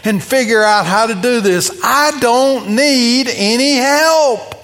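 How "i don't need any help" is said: mock macho bravado. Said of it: "rich young ruler culture".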